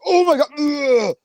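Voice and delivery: high, loud oh my God with a groan; mock dismay. Imagining him reading the hospice news, mock dismay. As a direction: play up the horror.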